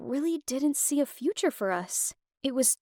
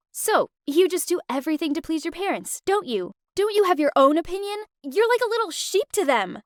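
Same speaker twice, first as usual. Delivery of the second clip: retold angry jab; 5 semitones higher than usual. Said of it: "I was fuming".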